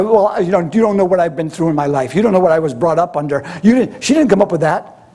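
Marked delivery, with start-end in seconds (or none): 0.0-3.4 quick, lightly mocking excuse-making; self-justifying attitude. Woman justifying herself before Jesus, mildly defensive. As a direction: rattle off the excuses with mild defiance. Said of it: "You know the attitude?".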